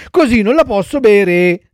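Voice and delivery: high, loud fussy complaint; whining child puppet. A narrator's reading. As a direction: whine as if disgusted by the taste. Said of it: "disse il burattino facendo mille smorfie". (burattino schifato e lamentoso)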